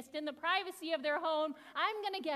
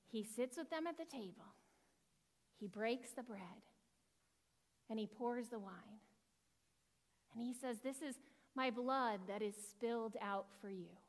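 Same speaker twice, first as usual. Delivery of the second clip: hushed reverence; 5 semitones lower, 8 dB quieter than usual. Acted. The teacher hushes to tell the class about the Last Supper, reverent. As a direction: draw listeners in with a hush.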